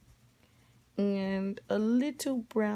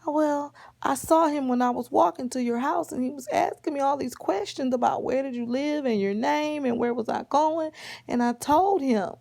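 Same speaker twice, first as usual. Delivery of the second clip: Red Riding Hood explaining; 5 semitones higher, 3 dB louder than usual. Acted. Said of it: "And she was like".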